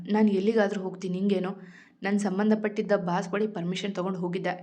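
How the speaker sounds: ordinary delivery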